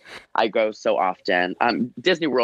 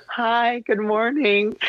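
high, sweet angelic princess greeting; Belle voice; 11 semitones higher, much slower than usual. Acted. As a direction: greet the kids like a storybook princess. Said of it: "Like the most Belle-like voice".

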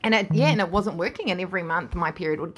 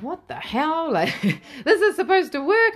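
pitched high, rising to louder on the last words; a mock-frustrated rant at herself; half-laughing, hammed-up frustration; exasperated outburst; 10 semitones higher, 4 dB louder than usual. Frustrated at failing to conceive.

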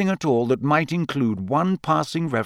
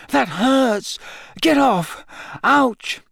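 pained protest; 11 semitones higher, much slower than usual. A narrator's reading. Being poked.

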